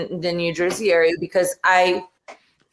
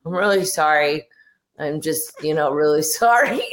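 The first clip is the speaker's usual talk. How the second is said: mock meek apology. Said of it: "I actually said".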